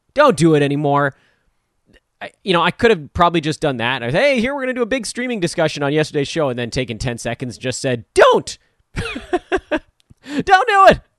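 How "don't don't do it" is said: loud voice cracking at a very high pitch. Speaker tells the audience not to do it, voice cracking. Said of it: "my voice cracking".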